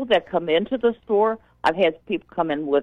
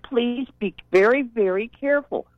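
gently raised, careful pleading tone; polite warning. Retold or imitated. Store clerk politely warns a parent about kids racing, gentle pleading. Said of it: "and now this is how I did".

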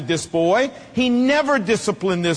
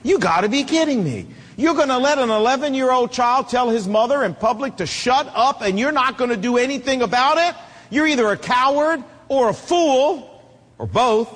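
higher, incredulous rebuke; retold disbelief; 4 semitones higher than usual. Onlooker's thought at the wimpy dad, indignant disbelief. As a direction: let indignant disbelief climb. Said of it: "I thought".

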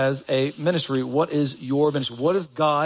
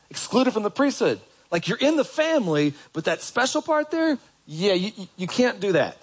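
emphatic rising; 6 semitones higher than usual. Acted. Preacher dramatizes exclusion.

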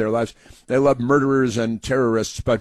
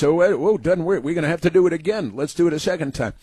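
higher, fast flustered mock voice; mock executioners; 4 semitones higher, faster than usual. Executioners after the failed injection, hurried mock voice. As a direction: rattle it off like a panicked executioner.

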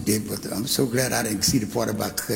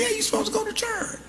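way higher, fast, softer mock lady; falsetto church lady; 4 dB quieter, much faster than usual. Voicing the lady on bus.

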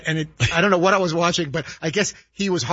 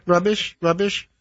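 lightly imitated attendant offering snacks down the aisle; flight attendant singsong; slower than usual. Passenger imitating a flight attendant's mock singsong. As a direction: chant the snack list like a tired attendant. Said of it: "repeat five thousand times".

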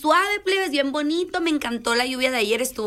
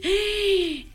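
mock gasp; 7 semitones higher than usual. Son gasps at green school.

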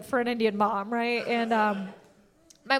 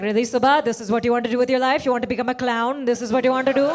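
furious mom; faster than usual. Retold or imitated. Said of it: "She's furious".

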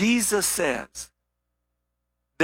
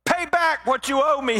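demanding; 8 semitones higher than usual. Acted. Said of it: "he demanded".

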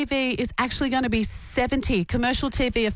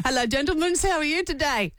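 put-on Con the Fruiterer accent; 4 semitones higher than usual. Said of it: "Let me try again".

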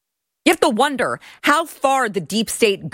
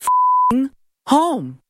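fed-up cry of go home; angry outburst; 3 semitones higher, much slower than usual. Real, not acted. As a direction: yell it at the screen in disgust. Angry rant reacting to clip.

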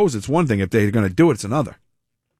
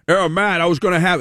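put-on loud Boston accent; 3 semitones higher than usual. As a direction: mimic a hard-of-hearing Bostonian. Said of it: "he's loud 'cause he's".

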